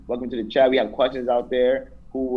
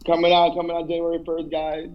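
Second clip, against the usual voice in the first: high, level promo pitch; mock announcer; 5 semitones higher than usual. Hyping a joke crew calendar to the guys, mock announcer.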